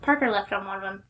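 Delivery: talking around ice in mouth. Real, not acted. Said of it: "I'm sorry, I have ice in my mouth".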